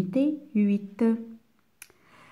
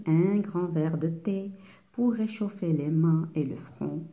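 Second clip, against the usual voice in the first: poem recitation. Acted. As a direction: read the poem line by line, settling gradually downward. Reads a poem aloud. (récitation de poème)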